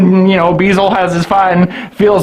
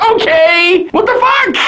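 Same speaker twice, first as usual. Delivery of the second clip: shocked squeal; 10 semitones higher than usual. Retold or imitated. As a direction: go up into an incredulous yelp. Voicing Katie's reaction.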